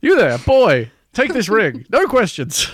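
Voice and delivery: high, loud, grand command; commanding hobbit voice. Pretend. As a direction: bark orders like a mock wizard. Acting hobbit handing ring to boy.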